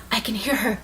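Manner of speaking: soft near-whisper, acted out; hushed. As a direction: say it under your breath, imitating her. Hidden character realises, retold.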